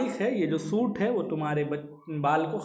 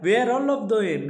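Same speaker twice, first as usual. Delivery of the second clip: each word read out slowly; measured recitation of verse; slow poem reading; 2 semitones higher, 3 dB louder, much slower than usual. Shown as a demonstration. Teacher reads poem line slowly.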